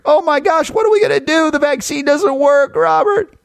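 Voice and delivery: high, hammed-up worried listener; mock panic. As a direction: play the frightened caller, pleading. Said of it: "leave you wondering".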